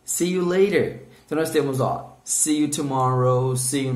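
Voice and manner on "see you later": higher, slow "See you later"; lifted, deliberate "See you later"; slow model phrase. Shown as a demonstration. Teacher repeats one more time for students, slow raised model. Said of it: "One more time".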